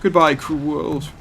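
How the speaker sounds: slow, high hammed-up farewell; mock dramatic farewell. Letting zombies down him in game, hammed-up farewell. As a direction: ham it up like a tragic hero.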